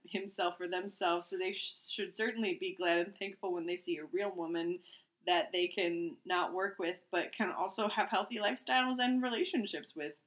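reading aloud. Acted. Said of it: "I'm just gonna read it as is".

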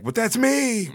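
high whiny protest; mock whine. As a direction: whine it like a jealous kid. Voicing people's whining claim.

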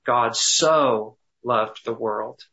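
slow, leaning on "so" with a rising tune; stress on so. Shown as a demonstration. Pastor meditating aloud, slow stress on "so". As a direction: draw out "so" in "God so loved the world". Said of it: "emphasizing one word at a time".

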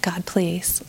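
softly whispered prayer; a hushed, pleading God please. Retold or imitated. Wife praying privately after the call, whispered plea.

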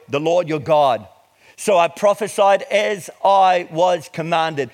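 measured, emphatic Bible reading; declaimed scripture with weighted key words. Acted. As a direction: read it out deliberately to a congregation. Reads scripture to congregation.

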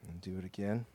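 hushed, reverent guided meditation; guided prayer. Acted. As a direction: ease them into stillness and prayer. Leads breathing and prayer.

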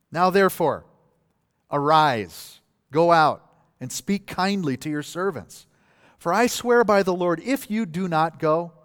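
measured, emphatic orders with pauses between; lightly acted solemn warning to a king; stern command. Preacher voices Joab ordering David to go out, mildly stern command.

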